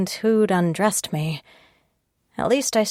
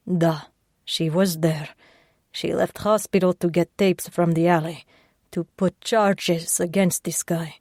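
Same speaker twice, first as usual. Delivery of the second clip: put-on gruff Russian accent. Sasha reassuring the injured patient, gruff and Russian.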